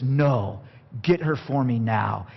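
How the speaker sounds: low, stubborn demand; defiant son. Retold or imitated. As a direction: dig in like a spoiled son. Samson defies his father.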